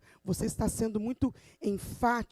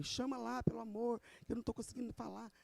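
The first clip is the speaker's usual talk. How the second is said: quase sem voz, bem mais baixo, rouca; 12 dB quieter, faster than usual. Retold or imitated. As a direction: pedindo ajuda com a voz rouca e fraca. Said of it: "Eu, com a minha rouquidão". (professora sem voz pede às monitoras, rouca e baixinho)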